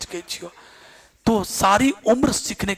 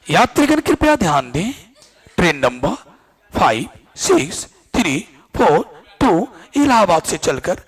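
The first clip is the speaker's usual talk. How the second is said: railway announcer. Shown as a demonstration. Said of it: "ऐसे बोलता है ना।".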